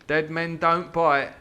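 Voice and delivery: slow, loud pirate line; pirate growl. A narrator's reading. Silver's grim motto, slow and loud. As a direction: drag each word out like a grim sea dog. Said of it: "says he".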